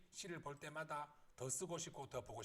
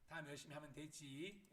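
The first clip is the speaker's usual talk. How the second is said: mildly soothing, softer after the scolding; soothing mom; 5 dB quieter than usual. Retold or imitated. Mom comforting child after scolding, mildly soothing. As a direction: gently let the child off. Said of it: "이렇게 이제 달래주시고".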